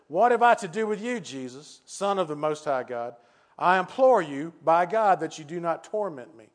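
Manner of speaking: lightly acted, emphatic plea; a hint of a tormented man begging; pleading demoniac. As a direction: implore with bursts of volume on the key phrases. Demon-possessed man implores Jesus.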